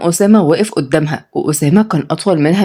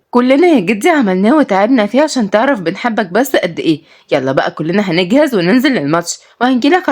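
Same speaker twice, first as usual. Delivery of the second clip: coaxing granddaughter; 3 semitones higher than usual. Acted. Granddaughter sweet-talks her grandfather.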